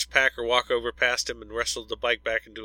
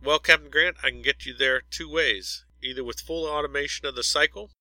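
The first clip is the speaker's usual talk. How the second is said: calm ship computer; 3 semitones higher than usual. Acted. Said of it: "The computer's neutral voice".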